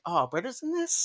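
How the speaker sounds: high-pitched mock surprise of a dean; imitating the dean. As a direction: lift the voice high into a rising question. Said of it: "and the dean's like".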